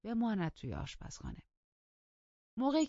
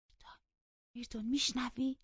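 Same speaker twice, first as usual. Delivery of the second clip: hesitant bid for attention; tentative calling; 8 semitones higher than usual. A narrator's reading. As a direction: call timidly, then press for an answer. Calling the cousin who ignores her.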